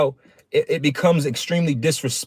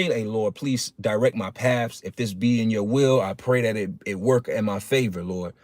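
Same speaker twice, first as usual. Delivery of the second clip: softer, hushed voicing of a humble prayer; 7 semitones lower, 6 dB quieter than usual. Preacher voicing a believer's private prayer, hushed and humble. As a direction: murmur it like a private plea to the Lord.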